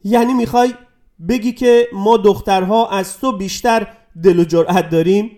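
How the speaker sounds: girl taunting the boy over his courage, mocking. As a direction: needle him as if he were a coward. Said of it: "او با تمسخر گفت".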